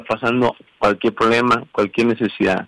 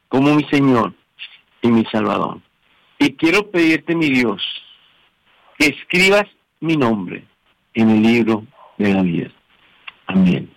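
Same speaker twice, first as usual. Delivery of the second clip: led prayer. Real, not acted. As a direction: pause after each phrase for repeating. Leads a repeat-after-me prayer.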